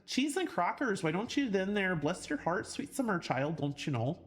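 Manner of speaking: mock-folksy Southern sayings with a Southern lilt; lightly hammed-up Southern accent; playful Southern accent. Streamer teasing with Southern sayings, playful Southern accent.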